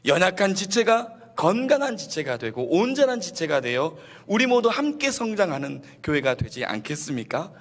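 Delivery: usual speaking voice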